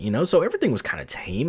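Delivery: ordinary talk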